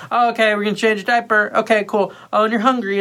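high sing-song parent voice; acted-out talk to an infant; baby talk. Talking to the baby, retold.

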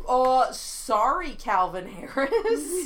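mock apology, laughing. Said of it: "they were like".

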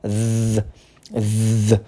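buzzing z-like th, tongue between teeth; voiced th demo. Shown as a demonstration. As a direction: buzz the th with the voice on. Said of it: "ele tem um z".

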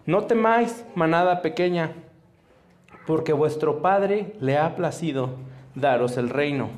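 slow, solemn Bible reading; scripture reading. Acted. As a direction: read the verses with weight and reverence. Reads Bible verses aloud.

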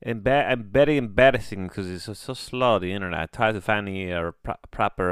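put-on broken English in a vague foreign accent. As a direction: stumble along in a mock foreign accent. Broken-English apology for slow internet.

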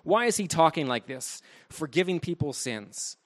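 acted scorn, stressing the dismissive words; mock indignant contempt; contemptuous. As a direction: voice a critic's disdainful questioning, lightly played. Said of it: "Notice that tone of contempt".

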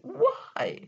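mock crying wail. Crying shout of disbelief.

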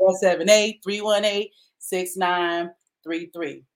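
firm start, slow spaced-out last digits; careful repeat. Real, not acted. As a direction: give the number out deliberately, group by group. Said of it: "I'll say it again".

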